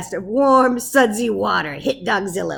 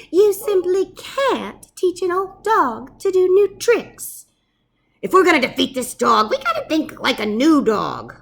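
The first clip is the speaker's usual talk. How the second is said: lightly voiced professor; 4 semitones higher, 6 dB louder than usual. Professor's lecture.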